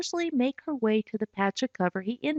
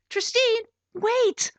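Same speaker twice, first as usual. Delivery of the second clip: calling out; 12 semitones higher, slower than usual. Acted. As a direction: call her back before she runs. Calling after her as she runs.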